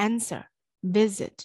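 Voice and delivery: "answer" and "visit" stressed on AN and VIS; AN-swer, VIS-it, demonstrated word by word; first-syllable stress. Shown as a demonstration. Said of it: "ပထမဦးဆုံး syllable မှာဖိသံထည့်".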